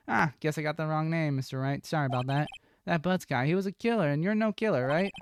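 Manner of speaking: lightly voiced blunt detective, apologizing; a hint of a brash cop; police detective character.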